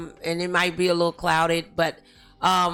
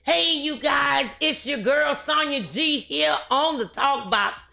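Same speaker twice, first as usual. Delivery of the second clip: show host intro; 3 semitones higher than usual. Acted. Host greeting listeners and presenting today's guest, show intro.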